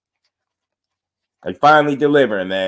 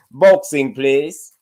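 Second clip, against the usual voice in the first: English voice, first word raised; English accent; much slower than usual. Pretend. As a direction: put on a playful English accent. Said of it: "In my English voice".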